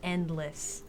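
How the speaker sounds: slow, soft and chilling; ominous hush. A narrator's reading. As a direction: draw out the dread slowly. GM describing chilling touch.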